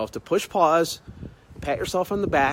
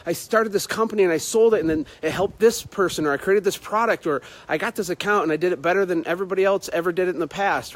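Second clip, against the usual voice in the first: pleased self-congratulation, building item by item; acted proud recollection; 3 semitones higher than usual. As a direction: marvel as you list your own wins. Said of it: "look and be like".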